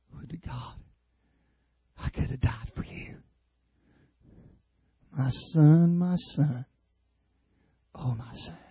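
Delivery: father mourning his son in a near whisper; broken quiet lament. Acted. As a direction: let the grief drain your voice away. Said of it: "the cry from a broken father's heart".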